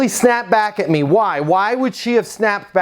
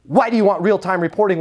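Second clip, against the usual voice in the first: aggressive tonality; faster than usual. Shown as a demonstration. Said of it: "with that tonality".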